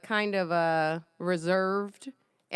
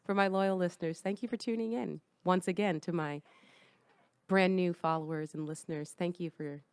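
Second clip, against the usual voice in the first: seductive voice; 3 semitones lower, 6 dB quieter than usual. Acted. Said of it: "kind of like a seductive voice".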